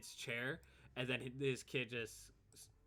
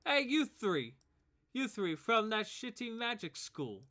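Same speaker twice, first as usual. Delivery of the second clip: raised, high bully call; taunting bully kid; 10 semitones higher, 8 dB louder than usual. Acted. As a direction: call them out like a cocky kid. Bully kids taunt the party.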